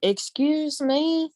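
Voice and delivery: grandma's high, drawn-out "excuse me"; slow, pointed challenge, imitated; imitated grandma's warning. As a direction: mimic grandma stretching out a warning. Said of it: "she would explain how".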